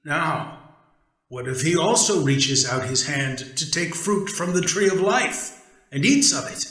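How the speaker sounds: God warning the others about the man; concerned God. Acted. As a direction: wonder aloud with concern. God speaks to the heavenly court.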